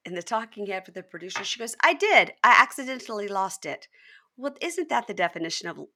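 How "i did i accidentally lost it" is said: high, loud imitated protest; mock defensive. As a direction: insist on innocence, hammed up. Retelling her defensive denial.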